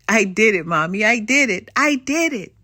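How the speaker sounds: put-on loud, happy child cheer; triumphant little shout; excited child. Child succeeds in pool.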